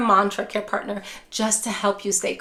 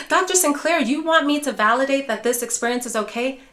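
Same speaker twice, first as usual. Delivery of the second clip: higher, incredulous mock-viewer voice; a lightly voiced, disbelieving care partner; imitating a doubtful viewer; 3 semitones higher than usual. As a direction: play the skeptical caregiver pushing back. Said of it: "Now, I can hear you already".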